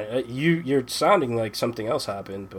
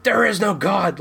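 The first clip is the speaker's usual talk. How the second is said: higher mock despair; hammed-up wail of despair; 7 semitones higher than usual. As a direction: cry it out like all hope is gone. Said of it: "I'm like".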